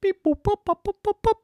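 high, loud staccato bleeps; robot beeping. Acted. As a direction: beep like a toy robot. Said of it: "said the robot".

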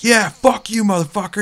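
loud, high mock battle cry; imitated yelling. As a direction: yell it like a player mid-attack. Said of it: "He's, like, yelling".

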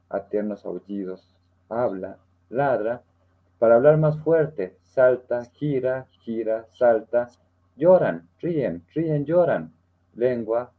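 reading a sad poem aloud to classmates, with feeling; poem recital. Acted. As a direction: recite it like a school declamation.

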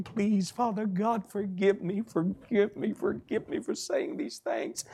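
slow, softened mock pleading; begging prayer. Preacher acting a prisoner begging God's forgiveness, pleading. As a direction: plead in drawn-out phrases, retold. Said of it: "I was begging".

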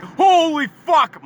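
high, loud, stretched-out outburst; alarmed shock. Acted. Watching his buddy drive off a curb, alarmed. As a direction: yell it high and drawn out in mock panic.

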